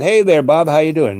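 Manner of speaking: imitating a friendly hail to an acquaintance; acted hearty greeting.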